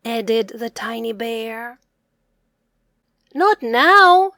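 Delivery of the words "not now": loud high rabbits; rabbits calling out. Acted. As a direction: shout them off, playful. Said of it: "said the three rabbits".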